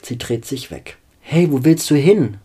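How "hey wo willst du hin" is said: raised, louder call. A narrator's reading. Vampire to the girl turning away, calling out. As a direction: call after someone walking away. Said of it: "ruft der Vampir".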